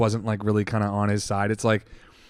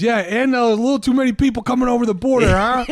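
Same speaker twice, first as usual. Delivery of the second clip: much higher, fast, laughing mock crank; hammed-up crazy lady voice; imitating the crazy lady; 11 semitones higher, 5 dB louder than usual. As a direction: rattle it off high with a laugh. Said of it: "And then she goes".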